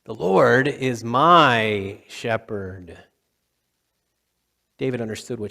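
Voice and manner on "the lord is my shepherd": slow, deliberate repeat of The Lord; slow reverent. Real, not acted. Preacher repeating the psalm to the church, slow and reverent. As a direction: savor each word slowly.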